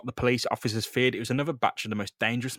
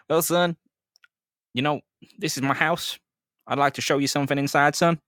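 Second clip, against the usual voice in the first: Captain Stacy voice; 3 semitones higher, 3 dB louder than usual. Acted.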